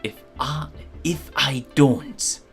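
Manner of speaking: slow mock-German menace; drawn-out German-accented villain. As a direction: threaten slowly in a German accent. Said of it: "I'm gonna do a German accent".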